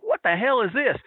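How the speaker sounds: lightly acted disbelief; imitated dismay. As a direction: ask it high, as if let down and confused. Acting the slumped wrestlers' disbelief.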